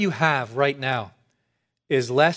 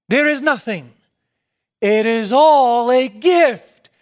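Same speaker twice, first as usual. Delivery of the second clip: preaching fervour, climbing higher and louder; getting excited; 5 semitones higher, 5 dB louder than usual. Real, not acted. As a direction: let the joy burst out, much higher and louder. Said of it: "That's why I'm getting excited".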